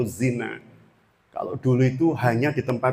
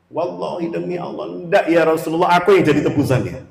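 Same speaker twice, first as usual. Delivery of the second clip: raised, fervent protest; earnest oath; 4 semitones higher than usual. Retold or imitated. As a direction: swear on God, pleading. Youth swears oath again.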